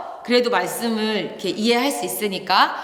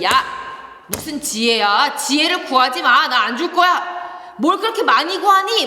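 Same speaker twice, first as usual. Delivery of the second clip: mock scolding God; 4 semitones higher than usual. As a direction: play a stern God telling a child off. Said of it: "뭐 이렇게 혼내시는 것이 아니라". (장난스럽게 혼내는 목소리)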